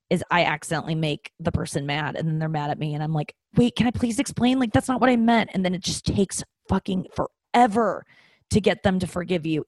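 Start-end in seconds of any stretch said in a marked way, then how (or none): 3.6-5.5 higher, anxious plea to be understood; mock-frantic begging partner; pleading apology. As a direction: beg them to hear you out, pitched up. Retelling her pleading apology.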